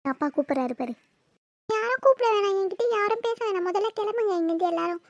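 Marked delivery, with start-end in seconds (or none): 1.7-5.0 angry outburst. Acted. Sulking daughter shouting at her family to leave her alone. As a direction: push everyone away in a huff.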